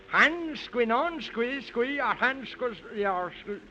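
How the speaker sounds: fumbled magic word. Acted. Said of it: "what happens when we say".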